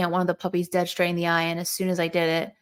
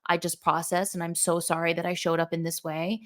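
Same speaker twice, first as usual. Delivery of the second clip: calm apology; 5 dB quieter than usual. Retold or imitated. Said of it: "It was this energy of".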